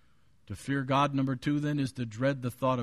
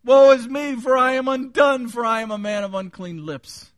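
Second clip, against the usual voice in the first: high, loud lament easing toward the end; Isaiah; 10 semitones higher, 10 dB louder than usual. Acted. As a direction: wail the confession, then let it fall. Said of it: "You know how Isaiah said it?".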